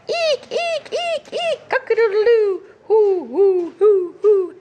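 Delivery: animal sound medley. Shown as a demonstration. Teacher reviewing book sounds for children. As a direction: rattle off all the sounds. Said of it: "it repeats the sounds".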